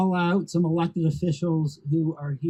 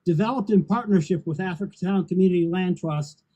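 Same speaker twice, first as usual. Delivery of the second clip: measured podium reading with deliberate pauses; formal prepared speech; 3 semitones higher, 3 dB louder than usual. Real, not acted. Housing executive reading prepared remarks on the new plaza, formal speech. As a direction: deliver it in weighted phrases to a crowd.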